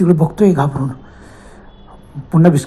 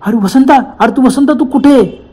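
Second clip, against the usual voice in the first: calling out; 6 semitones higher than usual. Acted. Ganesh calls out into the dark.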